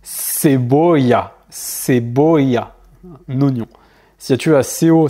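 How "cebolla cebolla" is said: cebolla said slowly, starting with an S sound; Spanish C as S. Shown as a demonstration. Teacher showing a learner C before E, cebolla with an S sound. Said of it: "ça va se prononcer C".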